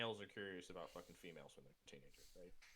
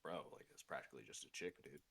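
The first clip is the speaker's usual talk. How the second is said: jock voice; 7 semitones lower, 5 dB quieter than usual. Retold or imitated. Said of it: "jocks sitting there going".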